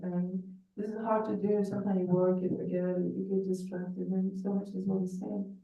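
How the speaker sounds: muffled, as if behind a hand. Real, not acted. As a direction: speak through a covered mouth. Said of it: "It's, it's, it's really muffled".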